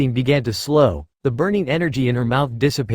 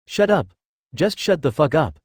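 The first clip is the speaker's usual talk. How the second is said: screaming; 2 semitones higher than usual. Acted. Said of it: "she screamed from within the armor".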